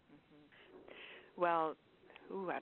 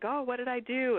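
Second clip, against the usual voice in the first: mock panic; 7 semitones higher, 7 dB louder than usual. Imitating a panicked reaction.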